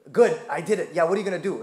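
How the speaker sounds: loud cocky taunt; defiant kid. Retold or imitated. Boy taunting his stick-wielding uncles, loud cheeky defiance. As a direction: dare them like a stubborn boy hiding behind grandma.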